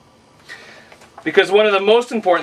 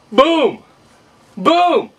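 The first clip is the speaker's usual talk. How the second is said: heroic rallying shout; 8 semitones higher than usual. Real, not acted. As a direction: punch each word out with glee. Gleeful shout over action figure.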